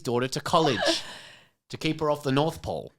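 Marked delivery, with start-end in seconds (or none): 1.7-2.9 punchline with the emphasis on "North"; odd emphasis on "North" in "North Pole"; stress on North. Real, not acted. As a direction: lean on "North", letting "Pole" fall away. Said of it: "why is North the emphasis".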